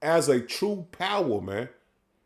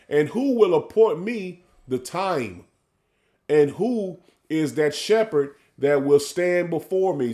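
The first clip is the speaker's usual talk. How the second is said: measured, drawn-out scripture reading; solemn sermon reading; slow preaching scripture read; slower than usual. Acted. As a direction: lay each phrase out slowly like a preacher.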